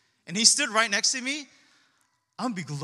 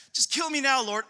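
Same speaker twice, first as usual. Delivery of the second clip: hammed-up despairing plea, higher and louder; overly dramatic; 3 semitones higher, 4 dB louder than usual. Preacher imitating Jonah begging God to die, mock-dramatic. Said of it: "He's so dramatic".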